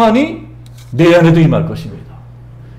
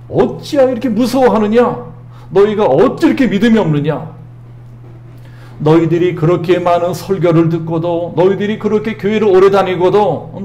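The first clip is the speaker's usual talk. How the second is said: Jesus scolding his fearful disciples, raised and pressing; rebuking Jesus; 3 semitones higher than usual. Acted. Jesus rebukes disciples for lacking faith, scolding. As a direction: demand it like a disappointed teacher. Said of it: "믿음이 없는 것을 꾸짖고 계십니다".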